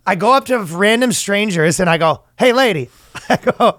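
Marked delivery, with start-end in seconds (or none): 2.4-2.9 mock street call. Acts out calling to strangers.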